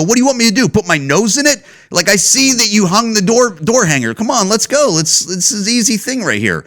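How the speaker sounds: to the rat bait worker, exasperated; exasperated rant. Retold or imitated. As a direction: push back hard, fed up with being told twice. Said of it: "that's not why I'm acting like an asshole".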